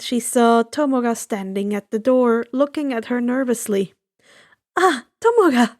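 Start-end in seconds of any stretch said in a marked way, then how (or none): 4.8-5.8 high, bright, friendly call of his name; pleased greeting. Acted. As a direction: greet him with a glad lift. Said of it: "Inko smiled".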